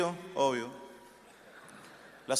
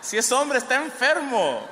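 mock outraged exclamation; 4 semitones higher, 4 dB louder than usual. Mock alarmed denunciation of the men.

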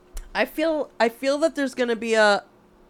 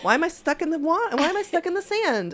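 mock whiny panic; 10 semitones higher than usual. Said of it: "and you're like".

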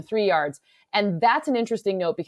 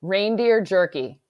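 put-on slow, drawn-out Minnesota accent; playful Minnesota accent, words stretched out; slower than usual. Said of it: "can you answer in a Minnesota accent".

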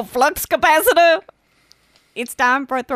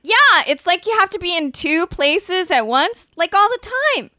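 put-on valley girl; 3 semitones higher than usual. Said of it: "Throw a couple in".

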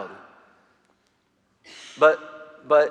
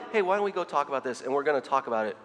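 softer, calm invitation fading out; gentle instead of yelling; 7 semitones lower, 8 dB quieter than usual. Retold or imitated. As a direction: speak gently where you'd want to yell. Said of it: "rather than yelling".

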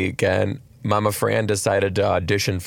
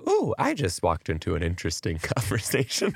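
softer waitress quote; 2 semitones lower, 7 dB quieter than usual. Retold or imitated. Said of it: "She's like".

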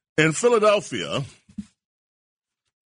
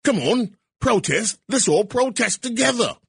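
much higher, sing-song fake plea to the NBA; sarcastic higher mock voice begging the NBA to protest; mock caller; 7 semitones higher than usual. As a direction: ham up a naive activist phoning in. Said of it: "Ask the N B A. "Hello, N B A".

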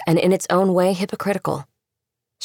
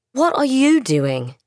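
chilly; 8 semitones higher, 3 dB louder, slower than usual. Acted. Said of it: "heard the chill beneath his words".

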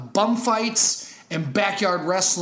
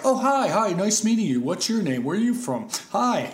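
stiff non-actor; 4 semitones higher than usual. Retold or imitated. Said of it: "He'd be just like".

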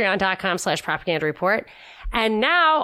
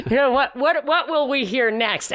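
laughing; 6 semitones higher than usual. Real, not acted. Laughing at the mockery.

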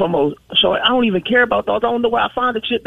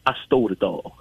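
low, soft mock voice of the ex, deeper than her own; lightly voiced confession, dropped low and quiet; quoting the ex; 13 semitones lower, 5 dB quieter than usual. Caller quoting her ex's confession, in a low mock voice. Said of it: "he said".

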